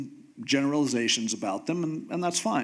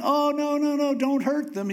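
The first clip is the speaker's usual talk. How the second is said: frantic begging; 10 semitones higher than usual. Retold or imitated. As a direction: beg desperately for them not to be hurt. Moses begging God to spare people.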